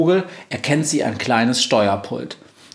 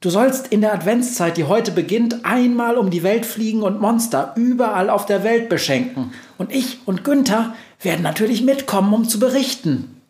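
high mouse voice, much higher; reporter mouse; 9 semitones higher than usual. Acted. Mouse reporter explaining the journey, high and squeaky. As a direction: chirp the plan like a small mouse.

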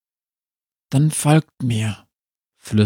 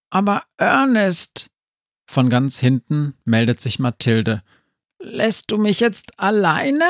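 put-on high, plaintive child voice; a little girl afraid to be left alone; 6 semitones higher than usual. Mathilde begs Ernest not to leave her, high child voice.

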